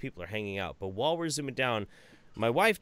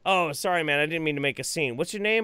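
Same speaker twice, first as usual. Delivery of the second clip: higher, falsely sweet sorry; mock apology; 6 semitones higher, 4 dB louder than usual. A touch of mock politeness to Jack's Films after the scene. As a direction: fake politeness, slightly raised. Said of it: "I looked at him like".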